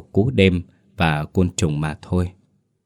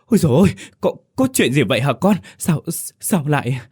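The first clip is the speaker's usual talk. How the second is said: put-on old mother aghast at her bloodied daughter; shocked old mother; 8 semitones higher, faster than usual. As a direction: gasp it out as a stunned old mother. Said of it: "há hốc miệng chết sững".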